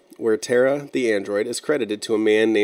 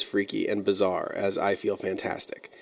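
whispering; 2 semitones lower, 6 dB quieter than usual. Real, not acted. Spooky aside about freaky videos.

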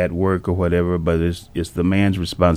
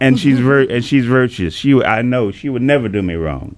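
higher, lifted, smiling delivery; 5 semitones higher, 3 dB louder than usual. Real, not acted. Husband praising his virtuous wife to the host, audibly smiling. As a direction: say it through a proud smile. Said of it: "He's smiling now".

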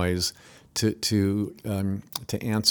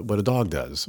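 ordinary talk

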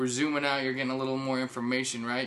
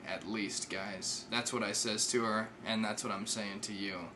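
soft, lowered aside; hushed confiding; 3 semitones lower, 6 dB quieter than usual. Real, not acted. Host confiding in his listeners about his heart, hushed. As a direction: drop the volume and pitch to confide.

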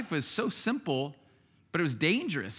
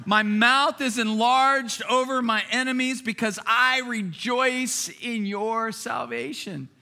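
raised, excited scripture reading, slowing at the end; pumped up; 5 semitones higher than usual. Acted. Hannah rejoicing over her baby, pumped and excited. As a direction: build to a drawn-out, exultant finish. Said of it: "She's just pumped. She's excited".

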